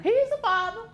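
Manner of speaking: high, emphatic insistence; insistent. Real, not acted. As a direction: insist he is the father. Insisting back at judge.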